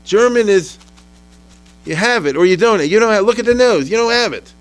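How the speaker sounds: mock the German's sneering certainty; German nationalist. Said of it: "The German said".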